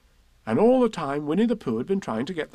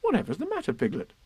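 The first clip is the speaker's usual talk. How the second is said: tag; faster than usual. Acted. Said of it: "said Christopher Robin".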